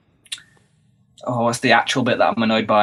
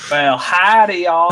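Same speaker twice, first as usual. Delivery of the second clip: mock cowboy American accent; light, hammed-up American drawl; 3 semitones higher, much slower than usual. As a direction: play up a hammed-up American howdy. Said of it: "do your best American accent".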